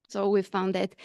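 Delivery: breathless, short on air; out of breath. Real, not acted. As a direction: speak while catching your breath. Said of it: "sorry, I'm out of breath".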